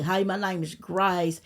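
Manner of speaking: slow, lightly put-on Arkansas country drawl. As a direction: play your naive Arkansas-girl drawl, slowed down. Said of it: "That's how I sounded".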